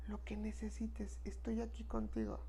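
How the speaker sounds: lip-service murmur of support; hollow whispered promise. Retold or imitated. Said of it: "se dice mucho de dientes para afuera".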